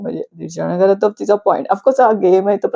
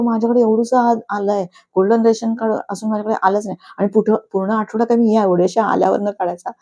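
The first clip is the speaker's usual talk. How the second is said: mock complaint; 4 semitones higher than usual. Prabhu complaining in the quarrel.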